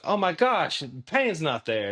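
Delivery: a lightly voiced woman astonished the pain is gone; mock astonishment from the patient; amazed.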